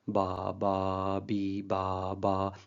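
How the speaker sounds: a quiet row of "बा" with one "बी" set apart; changed vowel. Shown as a demonstration. Teacher gives a second example of a different vowel for the students. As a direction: drop a single "बी" into the "बा" row. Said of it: "जो बी वाला सुनाई दिया है".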